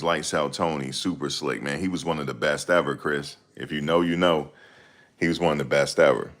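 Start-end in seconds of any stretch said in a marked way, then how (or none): none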